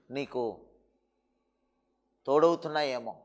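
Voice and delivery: quiet pastoral appeal; hushed tender preaching. Acted. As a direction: draw close and speak gently to the hurting listener. Preacher drops to an intimate hush.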